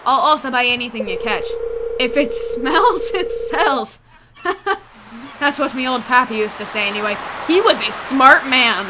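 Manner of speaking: put-on chuckling old pirate shopkeeper; pirate voice with a chuckle; pirate accent. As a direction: talk like a salty pirate recalling old sayings. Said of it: "give him a pirate accent now".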